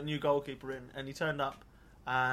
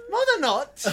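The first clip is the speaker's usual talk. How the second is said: retold protest; 13 semitones higher, 10 dB louder than usual. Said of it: "I was like".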